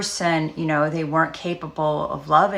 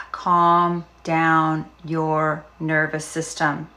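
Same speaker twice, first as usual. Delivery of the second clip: calm; much slower than usual. Shown as a demonstration. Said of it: "modelling calming".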